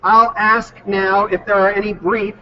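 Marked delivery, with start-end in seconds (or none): 1.9-2.3 slow, leaning on the word "brief"; stress on brief. Real, not acted. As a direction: stretch "brief" out and press it a little. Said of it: "and I emphasize the word brief".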